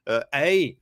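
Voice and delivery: lightly put-on Canadian accent; mock-Canadian accent with drawn-out words. Host teasing Canadians over the asteroid story, mock Canadian accent. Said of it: "That's my Canadian accent".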